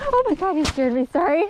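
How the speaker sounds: startled loud cry that breaks into laughter; scream into giggles. Real, not acted. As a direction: jump with fright, then giggle. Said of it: "scared the death out of me".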